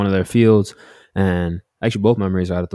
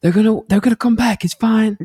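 dad dismissing mom; 4 dB louder than usual. Retold or imitated. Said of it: "And my dad was like".

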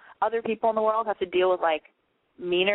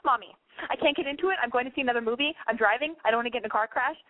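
slightly raised, urgent phone gush; worked-up daughter; 3 semitones higher than usual. Retold or imitated. Daughter gushing to mom on the phone, overwrought. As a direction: plead a little higher, climbing sharply at the end. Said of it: "this is me talking to her".

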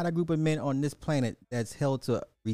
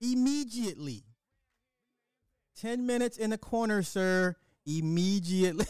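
giggly mock order; 9 semitones higher than usual. Mock orders coach to corner.

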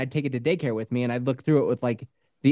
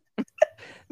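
put-on high, earnest little boy; earnest kid voice; 8 semitones higher than usual. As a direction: voice a proud kid. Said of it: "It's like".

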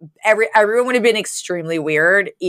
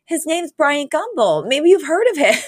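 smug reveal; 8 semitones higher than usual. Retold or imitated. Sammy drops a big name.

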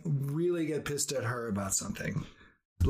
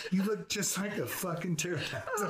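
laughing; 3 semitones higher than usual. Retold or imitated. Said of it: "And I said".

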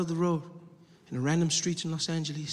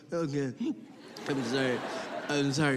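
meek retold apology; 4 semitones lower than usual. Retold driver calming down, apologising.

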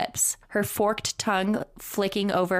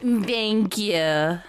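mock pleading; 2 semitones higher than usual. Mocking the whisper.

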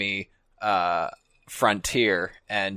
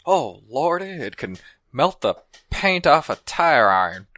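Hank Hill; 2 semitones lower than usual. Pretend. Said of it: "explain this whiskey as Hank Hill".

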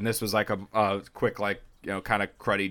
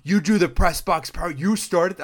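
imitated awed kid; 8 semitones higher than usual. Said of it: "kids go and be like".

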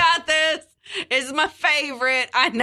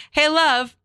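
from another room; 6 semitones higher than usual. Retold or imitated. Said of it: "And then he won't respond".

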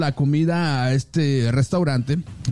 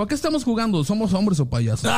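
mock aggressive; 4 semitones higher than usual. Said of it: "Bien agresivo".

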